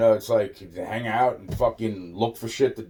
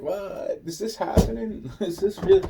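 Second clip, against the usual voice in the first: much higher, laughing disbelief; stunned disbelief; 10 semitones higher than usual. Retold or imitated. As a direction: gasp it out like you can't believe it. Stunned reaction retold with laughs.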